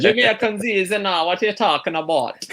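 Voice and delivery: high, jokey Jamaican voice; Jamaican accent. Shown as a demonstration. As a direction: put on a hammed-up Jamaican accent, breaking into laughter. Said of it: "you can do Jamaican".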